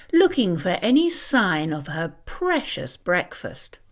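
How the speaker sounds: plain reading voice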